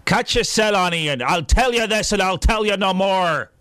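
lightly put-on Northern Irish accent; a hint of a Belfast accent. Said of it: "I'm supposed to do an Irish accent here".

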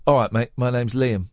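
a light, accidental Cockney; Cockney accent. Retold or imitated. Host retells a singer introducing himself, light Cockney accent. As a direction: lightly imitate a rock singer with Cockney vowels. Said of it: "He didn't do it in a Cockney accent".

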